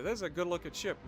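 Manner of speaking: firm insistence on This; stress on this. Real, not acted. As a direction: lean hard on This. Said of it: "I don't care what anybody says".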